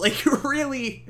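laughing through the words, pitched high; real amused laugh breaking into the comment. Real, not acted. Reviewer cracks up at the cheesy movie scene, laughing. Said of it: "I'm laughing my ass off here".

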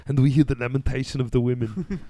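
light Austrian action-star impression; Arnold Schwarzenegger. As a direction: recite it with a put-on Austrian accent. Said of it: "that's my best phrase as my Schwarzenegger impression".

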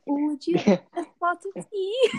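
loud, high send-up of British; mock British accent. Co-host mocking the British attempt, exaggerated British accent. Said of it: "my British accent".

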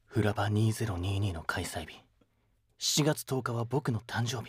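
slow, measured dramatic announcement; deliberate, low-key theatrical introduction; dramatic guest intro. Acted. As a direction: intone it slowly, like a solemn reveal. Guest performs dramatic self-introduction.

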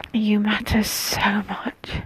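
soft unvoiced whisper, slow. Real, not acted. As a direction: hush it so nobody wakes. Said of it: "I'm whispering".

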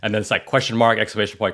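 usual speaking voice

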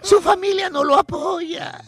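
hammed-up sobbing, slow; fake-weep over the poor orphan; slow, exaggerated boo-hoo voice; mock crying.

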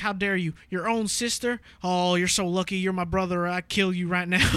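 mock-indignant Southern dude; lightly hammed-up Southern accent. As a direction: imitate a cartoon Southern threat. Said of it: "two Southern dudes, and he's like".

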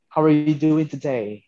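put-on slow, lilting British accent greeting. Showing friends how the English greet, British accent. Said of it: "British accent ako minsan".

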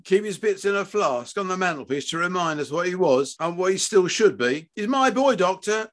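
high-pitched indignant rant; angry tirade. A narrator's reading. Father challenging surgeon over his son, angry tirade. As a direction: rage at the doctor without backing down.

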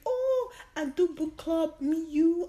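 high, drawn-out mock proposal; eager roommate imitation. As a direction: imitate an eager friend pitching a plan. Roommate proposing book club, retold.

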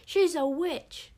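high, loud, dragged-out shriek; slow witch screech. A narrator's reading. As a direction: drag out each word in a loud high shriek. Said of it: "screeched the witch Mela".

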